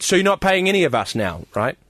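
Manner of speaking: mock public announcement; loud call-out. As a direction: put the manager on the spot publicly. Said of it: "really loudly".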